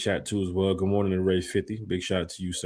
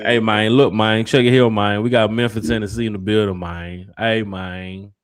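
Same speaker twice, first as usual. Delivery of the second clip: loud, easy Memphis street voice; louder Memphis greeting, imitating the local way of talking; 7 dB louder than usual. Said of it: "That's how they talk in Memphis".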